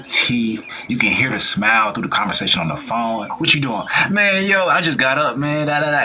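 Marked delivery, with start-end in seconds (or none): 3.3-6.0 excited. Retold or imitated. Voicing excited person on phone.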